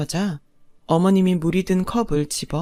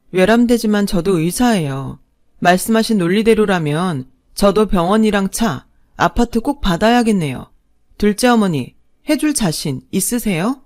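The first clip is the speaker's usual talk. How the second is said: cold retort; 3 dB louder than usual. Acted. Bride retorts coldly.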